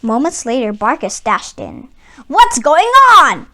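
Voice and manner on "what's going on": louder, higher alarmed question; cried out. Acted. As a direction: burst in demanding answers. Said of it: "he cried".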